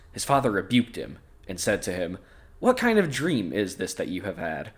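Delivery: measured storybook narration with clear phrasing; scripture read-aloud. A narrator's reading. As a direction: read the Bible passage aloud. Reads the Bible story aloud.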